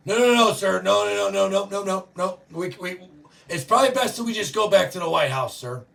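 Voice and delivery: retold Secret Service agent urgently refusing the president; urgent driver pleading. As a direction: hurry to talk the boss out of it. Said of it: "the Secret Serviceman that was driving the limo said".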